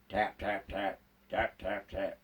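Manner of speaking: quiet, low tapping sound in the dark; spooky hushed tap tap; soft tapping. Retold or imitated. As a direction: tap it out softly like a distant chisel. Knocking sounds in ghost joke.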